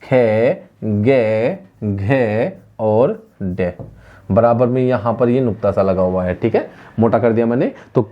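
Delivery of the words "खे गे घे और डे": खे, गे, घे, डे drawn out slowly, one at a time; letter-by-letter recitation. Shown as a demonstration. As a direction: recite खे, गे, घे, डे as separate, lengthened syllables. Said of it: "अगर मैं कहूं कंठ्या वाले वर्ण".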